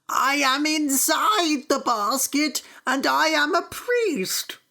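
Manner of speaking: high, slow, frightened pleading; desperate plea. Acted. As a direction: beg not to be thrown in. Desperate priest in basket.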